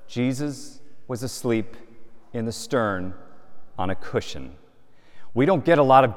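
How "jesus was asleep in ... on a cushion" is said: slow scripture reading. Shown as a demonstration. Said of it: "Mark says".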